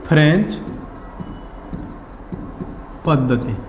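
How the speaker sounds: each word set apart by long pauses, French then पद्धति falling low; slow dictation. Shown as a demonstration. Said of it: "इसको हम बोलते हैं".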